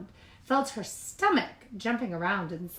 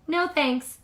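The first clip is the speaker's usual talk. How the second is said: higher, wistful refusal; girl voice; 8 semitones higher, 7 dB louder than usual. A narrator's reading. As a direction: politely turn them down. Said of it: "said Beatrice".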